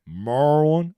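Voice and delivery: "Merlin" as "Mer-lun"; local pronunciation. Shown as a demonstration. Repeating the drill for chat: "Merlin" as "Mer-lun". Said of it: "That's how you say it".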